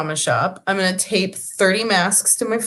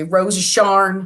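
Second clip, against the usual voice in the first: Oklahoma drawl; slower than usual. Pretend. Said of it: "'Cause I did Grapes of Wrath".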